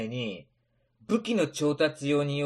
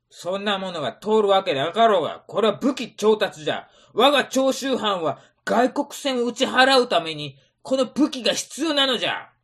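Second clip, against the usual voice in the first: stern lecture; 4 semitones higher, 5 dB louder than usual. Acted. Samurai lecturing refusal.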